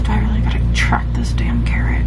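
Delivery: a half-joking whisper of complaint; whispered grumble. Real, not acted. Complaining to herself about logging a carrot, whispered. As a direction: mutter it under your breath, exasperated.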